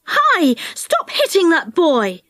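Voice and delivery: indignant cry. Acted. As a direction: call out to stop a bully. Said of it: "cried Jo".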